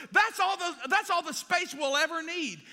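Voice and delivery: high, loud, pleased with himself; proud boast. Retold or imitated. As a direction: brag about the land. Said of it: "I was like".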